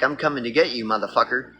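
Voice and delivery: mild mock wolf threat; menacing wolf. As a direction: threaten like a predator, low and quiet. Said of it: "A wolf is like".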